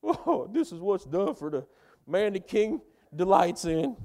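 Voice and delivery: loud, high proclamation, hammed-up; herald shout. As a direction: bellow it through the town like a crier. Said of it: "he shouted out at the top of his lungs".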